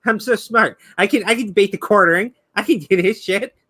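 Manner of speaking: lightly voiced smug game defender; mocking imitation. Streamer apes a rival scolding the community, lightly mocking. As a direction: parody an indignant, self-satisfied fan. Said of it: "look at the community and go".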